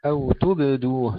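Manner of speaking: "تبدوه" with a still, bounced baa, not given a kasra; slowly, "تبدوه" with the baa kept silent; tajweed demo. Shown as a demonstration. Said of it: "لا نكسر الباء المقلقلة".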